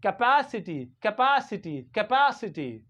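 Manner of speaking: capacity with stressed "PA", as in pat; capacity said "kuh-PA-si-tee" for learners; clear "pa" syllable. Shown as a demonstration. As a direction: lean on the PA in capacity. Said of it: "P A we pronounce like pa".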